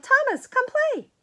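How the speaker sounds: high, loud call from afar; distant yell. Acted. Kid shouting from playground, high call. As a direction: call him out to play. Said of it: "someone yelled".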